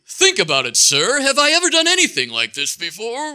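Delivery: British gentleman reasoning, rising high; hammed-up British voice climbing to a question; distinguished British accent. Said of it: "still in his distinguished British accent".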